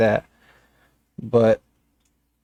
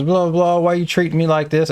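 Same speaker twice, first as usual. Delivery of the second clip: higher mock protest; mocking the angry lady; 4 semitones higher than usual. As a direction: imitate her indignant whine. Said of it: "And then she was".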